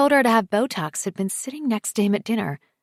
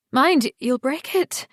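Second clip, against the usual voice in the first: warning; 6 semitones higher, 4 dB louder than usual. A narrator's reading. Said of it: "she warns him".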